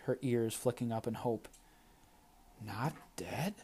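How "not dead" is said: stunned breathy whisper, much softer. A narrator's reading. Nyami whispering in shock at the news. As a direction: breathe it out in disbelief. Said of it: "Nyami whispered".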